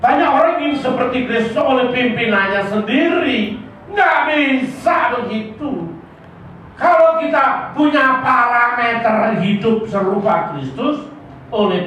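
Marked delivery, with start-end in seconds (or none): 3.9-5.9 emphatic shout. Real, not acted. Preacher stresses point.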